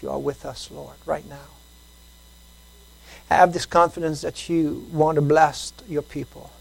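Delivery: hushed prayer that swells then fades to a whisper; pastoral prayer. Acted. Leads a prayer.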